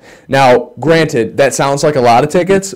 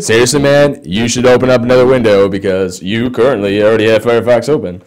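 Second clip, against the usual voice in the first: put-on frat boy voice. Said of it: "My computer's like".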